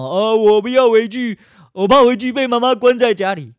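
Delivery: hammed-up whine of a victim who won't go home; mocking whiny victim. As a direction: sneer as a spoiled victim. Mocking victim refusing to return.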